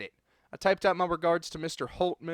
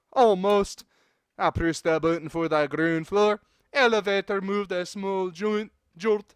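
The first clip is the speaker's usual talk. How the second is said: lightly put-on Scottish narration; Scottish accent; 2 semitones higher, 3 dB louder than usual. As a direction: keep reading with a Scottish lilt. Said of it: "how to do the Scottish accent".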